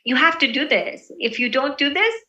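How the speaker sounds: understated warning that climbs on the condition; slight force. Shown as a demonstration. Teacher demonstrating how saying it matters, slightly forceful. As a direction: push it lightly, like a veiled threat. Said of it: "with slight force".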